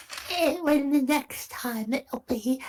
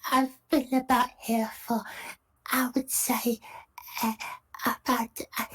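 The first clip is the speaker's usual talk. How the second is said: put-on an old woman mumbling, partly whispered; dotty old woman, half-whispered. Old woman telling the merchants, half-whispered. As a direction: trail off like a forgetful old lady. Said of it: "disappear into a character".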